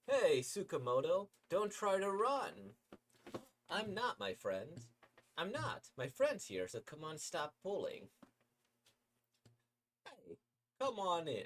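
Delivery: tugging a buddy along, loud and high; high loud cheery pal; excited friend voice. Acted.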